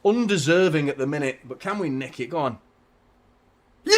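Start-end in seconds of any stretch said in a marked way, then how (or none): 3.8-4.0 a huge high yell breaking into a laugh; ecstatic goal scream. Real, not acted. Fan screaming as City equalise, high yelling laugh.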